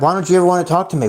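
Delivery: fast, mocking nagging parent; mock parent nag. Mocking the parent asking why he never talks. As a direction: rattle off the parent's complaint. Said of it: "it's like".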